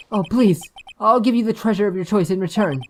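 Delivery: pleading client. Acted.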